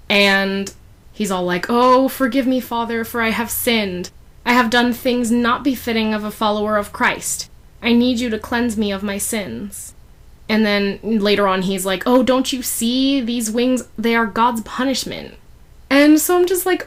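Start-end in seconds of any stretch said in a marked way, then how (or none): 1.7-9.9 higher-pitched, mock-earnest confession; lightly hammed-up begging for absolution; penitent plea. Acted plea for forgiveness, kneeling. 12.0-15.3 mock-anguished, higher-pitched plea; penitent lament.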